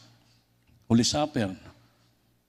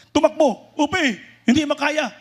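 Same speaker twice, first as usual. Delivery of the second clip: laughing; 12 semitones higher, 5 dB louder than usual. Retold or imitated. Comic retelling of fleeing.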